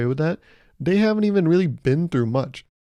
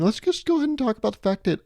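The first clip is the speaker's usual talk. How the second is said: corporate meeting voice; 9 semitones higher, faster than usual. Retold or imitated. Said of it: "people that talk like this".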